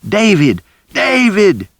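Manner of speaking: loud, very high desperate calls; shouting his name. A narrator's reading. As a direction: cry out across the room to him.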